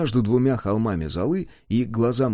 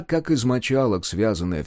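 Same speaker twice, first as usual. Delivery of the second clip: ordinary delivery, nothing marked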